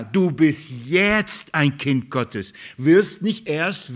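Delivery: jetzt hit hard and drawn out, slow; slow it right down and punch jetzt; emphatic jetzt. Real, not acted. Preacher telling each listener they are God's child now, slow, punching jetzt. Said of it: "er setzt das jetzt an erste Stelle".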